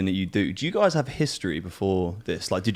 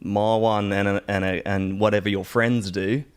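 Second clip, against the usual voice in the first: put-on Australian accent; 3 semitones lower than usual. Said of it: "there's a slight weak hybrid of South African in there".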